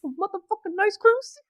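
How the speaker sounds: words squeezed through clenched teeth; talking through teeth. Real, not acted. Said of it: "I'm talking through my teeth".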